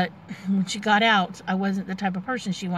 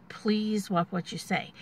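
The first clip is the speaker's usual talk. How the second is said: softer, slow, measured request; calm plea; 6 dB quieter, slower than usual. Retold or imitated. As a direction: ask quietly and calmly, holding back. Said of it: "I was like".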